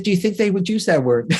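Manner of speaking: high-pitched, amused query; amused retold question. Speaker re-enacts asking a parent in the audience, high and amused. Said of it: "Just like this".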